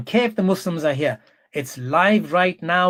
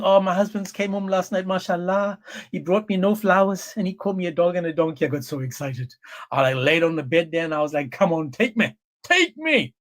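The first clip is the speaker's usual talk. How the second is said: mock swooning wife. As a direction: gush in mock delight. Mocking wife delighted by insults.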